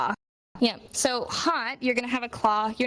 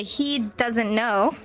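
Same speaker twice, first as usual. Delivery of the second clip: slow; much slower than usual. Shown as a demonstration. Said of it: "You could say".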